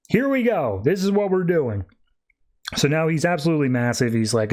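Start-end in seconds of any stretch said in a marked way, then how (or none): 0.1-1.9 mock grand villain declaration. Anubis growing huge, declaring doom.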